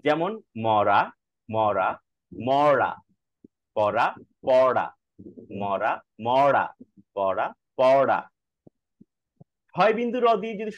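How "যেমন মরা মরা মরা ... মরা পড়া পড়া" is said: মরা with a tap and পড়া with a curled-back flap, said slowly; slow drill of মরা and পড়া; tap versus flap words. Shown as a demonstration. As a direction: contrast র and ড় in word pairs. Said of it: "কিছু শব্দ আমরা একটু দেখি".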